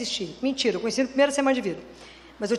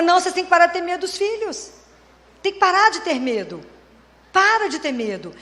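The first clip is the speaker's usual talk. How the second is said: firm, raised scolding; emphatic retort; 4 semitones higher than usual. Retold or imitated. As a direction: push each repeat as a forceful order. Therapist's forceful retort to frightened parents.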